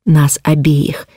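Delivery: slow unvoiced whisper; a sudden hushed aside in the middle of the plea. Heroine defending her friend.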